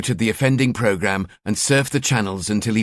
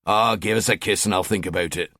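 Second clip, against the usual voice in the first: teasing; 3 semitones lower than usual. Acted. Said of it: "he teased".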